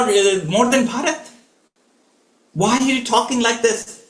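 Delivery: high, desperate pleading; pleading king. Acted. King begging his wife to spare his son, high desperate plea. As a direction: beg her, voice lifted high throughout. Dashrath begging Kaikeyi for Ram.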